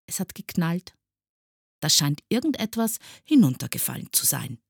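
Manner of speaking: high, innocent little remark. A narrator's reading. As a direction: play the unknowing innocent. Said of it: "sagte unschuldig". (unschuldig feststellend)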